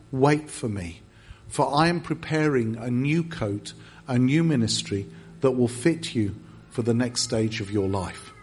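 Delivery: low, measured, solemn delivery; solemn prophecy. Retold or imitated. Pastor passing on God's word to a troubled visitor, solemnly. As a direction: deliver it as a message from the Lord.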